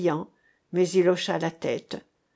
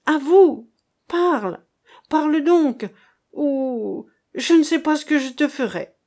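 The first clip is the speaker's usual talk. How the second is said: high, loud frantic demand; mother frantically threatening her daughter; desperate threat; 7 semitones higher, 5 dB louder than usual. A narrator's reading. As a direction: threaten the child.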